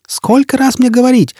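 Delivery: put-on high foreign-accented scolding; high, indignant cry with a foreign accent; exasperated shouting. A narrator's reading. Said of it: "закричал лохматый".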